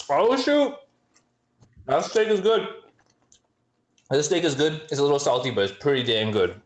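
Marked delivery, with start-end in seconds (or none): 0.1-0.7 high, loud squeal of delight; excited squeal. Real, not acted. First bite of steak. 1.9-4.8 high, delighted praise; excited. Real, not acted. First bite of steak.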